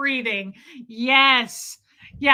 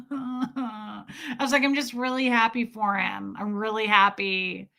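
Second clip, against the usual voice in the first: half-laughing, half-crying forced cheer; can't hold back the laughter; over-the-top fake happiness; laughing through it. Real, not acted. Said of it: "it was over the top".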